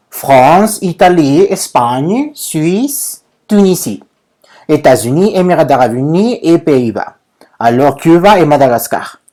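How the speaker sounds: nombres en francés, "Espagne" con ñ final; pronunciación francesa modelo. Shown as a demonstration. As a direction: dicta de "France" a "Tunisie" uno por uno, para que repitan. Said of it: "Repito nada más la pronunciación". (pronuncia "États-Unis" como "etazuní", a la francesa)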